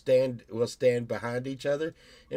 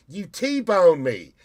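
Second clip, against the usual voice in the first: mock accusing driver; 5 semitones higher, 9 dB louder, much slower than usual. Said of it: "They're like".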